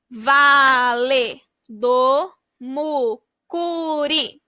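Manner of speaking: very slow, whispered "Vale do Mucuri", each syllable drawn out; slow stretched whisper. Shown as a demonstration. Teacher models blending the word for kids, slow whisper. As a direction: breathe the words out slowly, syllable by syllable. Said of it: "blending syllables into the word".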